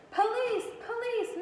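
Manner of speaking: loudest shout. A narrator's reading. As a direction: cry out for help with all your might. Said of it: "he shouted in his loudest, most terrifying voice".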